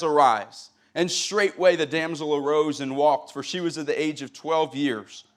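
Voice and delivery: steady Bible reading to the congregation; scripture reading. Acted. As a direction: read the King James text with reverence. Reads scripture aloud.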